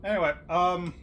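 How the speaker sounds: talking while crunching crackers. Real, not acted. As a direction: chew crackers between words. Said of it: "don't mind me crunching on some crackers".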